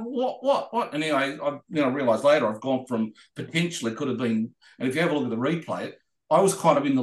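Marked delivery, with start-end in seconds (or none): 0.0-0.9 much higher, laughing what what what; mock confusion. He reacts to Ted waving him back out with laughing confusion. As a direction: sputter it out, laughing and baffled.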